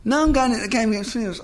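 can't get through it without cracking up; laughing through it. Real, not acted. Guest cracking up retelling the suppository fitness test, laughing. Laughing at his own story.

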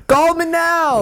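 very high, slow, sultry come-on; slow breathy hotline tease. Pretend. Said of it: "dudes with the hotline voice".

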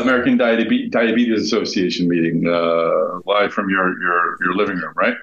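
sounds like a bag over the head; muffled, poor headset sound; muffled audio. Real, not acted. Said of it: "I'm gonna be a little muffled".

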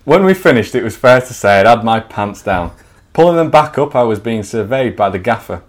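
measured storyteller voice; story narration. Acted. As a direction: read it like a comic memoir. Reads his story aloud.

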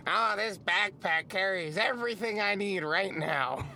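lightly voiced slow drawl; a hint of a slow lazy guy; imitation of her. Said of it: "do an imitation of her".

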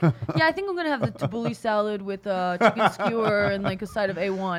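lightly put-on voice of a friend ordering food, laughing; imitating Phil. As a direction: do a mild laughing impression of the friend. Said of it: "I know you're so good at voices".

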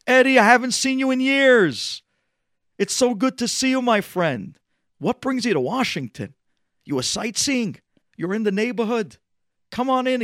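put-on high, loud, overjoyed welcome to an old friend; thrilled greeting. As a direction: burst out with joy at seeing him. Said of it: "He was thrilled".

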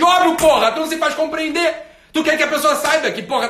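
loud, high-pitched outburst; exasperated retort. Acted. Host answering the misunderstood follower, exasperated. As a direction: burst in on the whining, fed up. Snaps back at the whiner.

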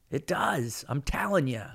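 breathy whispered aside; hushed, almost secret confirmation. Real, not acted. Intimate aside to listeners.

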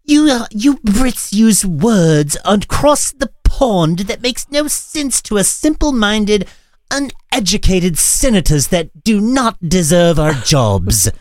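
high, put-on mocking senator voice; Ted Cruz impression. Host mocks Ted Cruz answering the British reporter, high silly voice. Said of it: "I am Ted Cruz".

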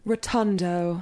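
a lightly posh British "Rotundo", rounded and drawn out; posh English accent. Pretend. Friends ask for the word in a posh English accent. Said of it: "how do you say rotundo in a posh voice".

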